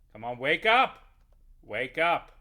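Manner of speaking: loud frustrated shout at the screen; yelling at the game. Real, not acted. Gamer yells at a game character, loud frustrated shout. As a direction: urge the sleeping creature awake, loudly.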